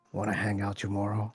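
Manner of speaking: seductive whisper. Acted. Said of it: "leans in and whispers in his ear".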